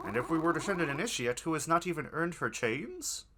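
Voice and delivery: cultist voice. Acted. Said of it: "you switch cultist voices".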